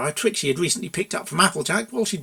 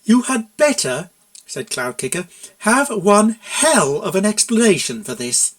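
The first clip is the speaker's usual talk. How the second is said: slow, loud, cold warning; stern warning; 4 semitones higher, 4 dB louder, slower than usual. A narrator's reading. Mare demanding an explanation, slow loud stern warning. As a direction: lay down the threat slowly. Furious mare confronting consultant.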